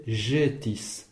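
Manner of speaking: "jetis" slowly, opening on a French j; J circumflex sound. Shown as a demonstration. Teacher distinguishing it from G circumflex, clear J sound. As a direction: start "jetis" with zh, without a d. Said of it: "le J chapeau à distinguer".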